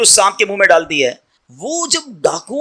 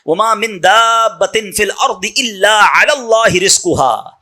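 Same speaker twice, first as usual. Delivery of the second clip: Quranic recitation; much slower than usual. Acted. Quranic verse recited slowly.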